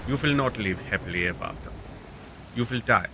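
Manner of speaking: put-on, not entirely good German accent. Gamer narrating moves to foes and self, mock German accent. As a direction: play it with a hammy German accent. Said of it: "I don't know why I'm German".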